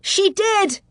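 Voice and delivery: high-pitched indignant retort; indignant cry. Acted. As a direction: fling it back, stung and proud. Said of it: "Abrielle cried indignantly".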